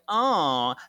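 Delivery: a loud, slightly husky take on a gruff hero growl; Batman voice. Retold or imitated. Prue scolding Paige behind her back, mock Batman growl. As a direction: growl it like a tough caped crusader, half-laughing. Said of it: "Trying to do the Batman voice".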